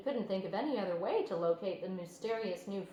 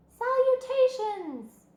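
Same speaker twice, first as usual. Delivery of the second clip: grand greeting; 9 dB louder, much slower than usual. A narrator's reading. Spider's voice greets Wilbur.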